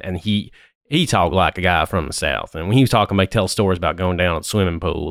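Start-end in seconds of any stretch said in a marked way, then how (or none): 0.9-2.5 put-on grandfather's Southern accent; Mississippi accent. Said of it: "his Mississippi accent would come out". 3.3-5.1 imitated Southern storyteller; Mississippi accent. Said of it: "like that, it's very".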